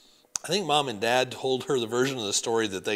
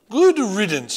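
put-on high, loud French-accented repeat; 9 semitones higher, 12 dB louder than usual. Grandmother repeating herself to grandson, French accent. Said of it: "Grandmere had a thick French accent".

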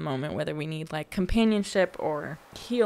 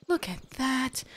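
spoken out, higher with delight; excited; 5 semitones higher, 3 dB quieter, slower than usual. Real, not acted. Repeats line, whispered then aloud.

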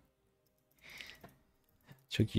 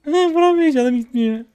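frustrated cry; 12 semitones higher, 5 dB louder than usual. Real, not acted. Frustrated outburst mid fight.

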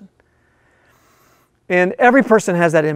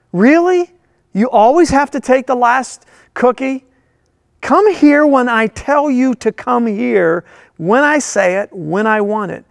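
mock bickering; 4 semitones higher than usual. Mock family bickering at home.

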